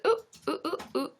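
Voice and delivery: string of short, high oohs; little high yelps as it slips away; startled oohs. Real, not acted. Host loses the question mid-reading, startled oohs.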